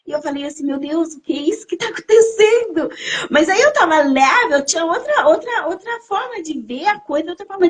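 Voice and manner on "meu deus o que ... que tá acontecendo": mildly high, tearful retold bewilderment; tearful astonishment. Woman retelling her cry to God, tearfully amazed. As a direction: ask it in teary amazement.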